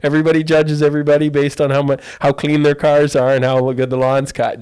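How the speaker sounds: high, loud mock Dutch accent. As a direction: imitate a Dutch tutor in accent. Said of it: "with a Dutch accent".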